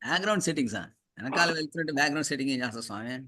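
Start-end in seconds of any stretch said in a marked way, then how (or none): 1.2-3.2 rapid slip into Telugu; sudden Telugu. Real, not acted. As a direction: blurt it out quickly in Telugu. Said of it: "Oh, sorry, I spoke Telugu".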